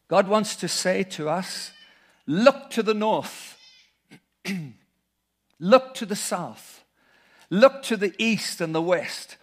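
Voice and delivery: put-on Malayali accent. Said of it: "in his lovely Malayali accent".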